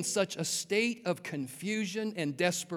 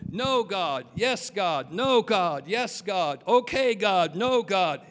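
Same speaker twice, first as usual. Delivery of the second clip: back and forth. Retold or imitated. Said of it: "like a tug of war".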